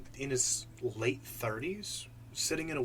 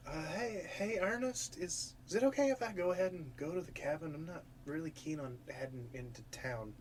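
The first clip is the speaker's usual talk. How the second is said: higher, mildly hesitant and nervous; 4 semitones higher, 4 dB quieter than usual. Acted. Tilly asks Ernest to skip town, mildly nervous. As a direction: ask timidly, softening toward the end. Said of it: "Tilly is visibly nervous".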